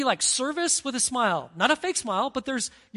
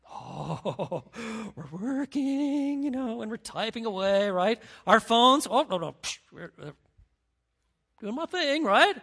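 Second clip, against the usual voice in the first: mock innocent worker; 4 dB louder than usual. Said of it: "when the boss is there, guess what".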